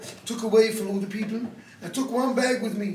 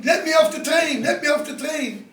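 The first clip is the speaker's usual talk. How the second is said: louder, higher, desperate; frantic shout; 4 semitones higher, 4 dB louder than usual. Retold or imitated. Mother on the train begging to get off, frantic shout. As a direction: shout to be let off. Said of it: "I started shouting".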